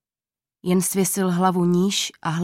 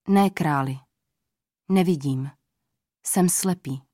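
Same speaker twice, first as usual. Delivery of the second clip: put-on old man; 3 semitones lower than usual. A narrator's reading. Blind old man answers king.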